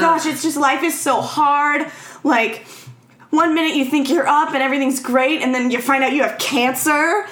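hammed-up pity party for yourself; mock self-pity. Mother lamenting her life to her daughter, mock self-pitying. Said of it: "pity party for herself".

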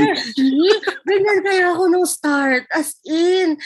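high, loud through laughter; after laughing hard. Real, not acted. Laughing while telling office story.

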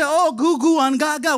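put-on light cooing baby talk; mock baby talk. Parent cooing to baby, playful baby talk. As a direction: coo at a baby, hammed-up a touch. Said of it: "that you say".

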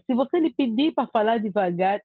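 ordinary talk

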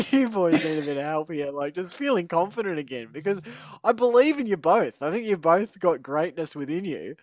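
a lightly voiced sports psychologist pep talk. Hosts pep-talking co-hosts before trivia as a lightly played sports psychologist. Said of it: "we're gonna need the sports psychologist".

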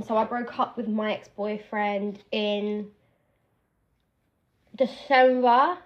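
talking around a hair clip in the mouth. Real, not acted. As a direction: speak with something held in the teeth. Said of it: "I've had the clip in my mouth".

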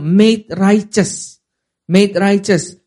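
"Made righteous" said slowly in English; English phrase. Shown as a demonstration. Preacher giving the English term, slow and clear. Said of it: "bahasa Inggrisnya apa?".

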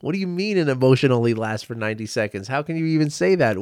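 quick mock-incredulous challenge; voiced objection in a rush; imitating incredulity. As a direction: fire back like a disbelieving listener. Voicing people's disbelieving objection.

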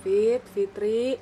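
lightly voiced ghostly man calling slowly; a hint of a haunting man luring her; male ghost voice. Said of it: "itu suara cowok".

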